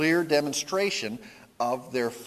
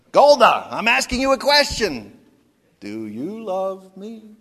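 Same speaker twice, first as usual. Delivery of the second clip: insistent Tevye; 8 semitones higher, 11 dB louder than usual. Retold or imitated. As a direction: demand an answer, then soften.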